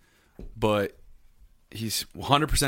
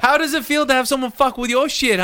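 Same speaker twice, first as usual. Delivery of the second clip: loud; 13 semitones higher, 7 dB louder than usual. Acted. Mock confrontation.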